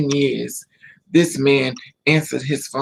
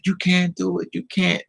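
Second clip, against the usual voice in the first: higher-pitched, mildly insistent plea; retold urgent protest; 5 semitones higher than usual. Friends begging the driver to stop, retold urgent protest. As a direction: imitate friends trying to stop her.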